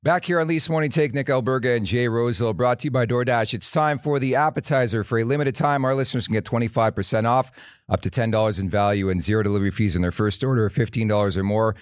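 upbeat sponsor read voice. Acted. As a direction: read it like a radio ad. Reads sponsor ad.

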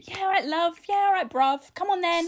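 a hint of regional British accent. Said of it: "Like a regional British accent".

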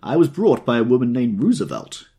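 tipsy owl-eyed man. Acted. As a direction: babble on like a delighted drunk. Drunk man rambling.

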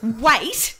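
high, hammed-up indignant retort; mock indignant wait, how dare you; mock outrage. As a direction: play the offended landlord, pitch up on how dare you.

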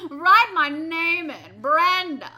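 high, loud, slow goofy voice; drawn-out silly character voice; silly clown. Pretend. Plays Brenda.

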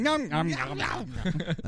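cartoon eating "nom nom"; mock munching noises. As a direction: chomp through imitated munching sounds. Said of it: "walks around going".

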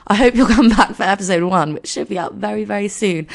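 slightly croaky, hoarse podcast voice. Real, not acted. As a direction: speak through a croaky throat. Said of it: "I've got a bit of a croaky voice".

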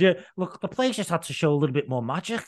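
a hint of a shrugging Gerrard; Stevie G impression. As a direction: lightly imitate a deflated manager. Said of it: "Stevie G said".

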